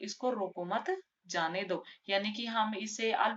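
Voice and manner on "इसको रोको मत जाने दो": इसको रोको मत together, break, then जाने दो; pause after मत. Shown as a demonstration. Teacher explains the let-him-go meaning, pause after मत. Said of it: "इसका मतलब होगा".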